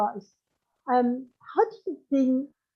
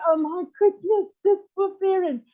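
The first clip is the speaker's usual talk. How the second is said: pitying thought; 8 semitones higher than usual. Retold or imitated. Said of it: "and you think".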